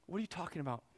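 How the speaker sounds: very soft, baffled question; deadpan officer. Retold or imitated. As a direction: answer the babble quietly, unimpressed.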